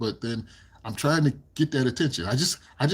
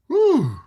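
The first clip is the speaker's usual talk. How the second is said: high whew; 8 dB louder than usual. Real, not acted. High whoop after laughing.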